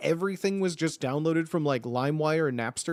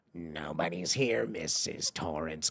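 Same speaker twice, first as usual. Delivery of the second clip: very low, hushed, sinister, creeping evil voice; 12 semitones lower, 6 dB quieter than usual. Retelling how a girl named Cindy acted as a kid, Cindy's evil voice. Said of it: "like this evil voice".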